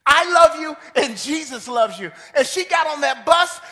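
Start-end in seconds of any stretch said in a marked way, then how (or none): 0.1-2.1 loud, ringing declaration; proclaimed. Retold or imitated. Preacher shouting the woman's words to the church. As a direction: call it out to the congregation.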